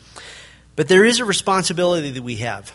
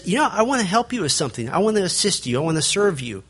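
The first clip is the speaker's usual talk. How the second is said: sugar-coat the help; mock nice tone; 3 semitones higher, faster than usual. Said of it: "a really nice tone when somebody says".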